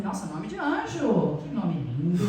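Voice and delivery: slow, tender praise with a little laugh; admiring. Retold or imitated. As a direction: marvel at the boy's name, slow. Elogia o nome do menino. (elogio lento e carinhoso, com riso leve)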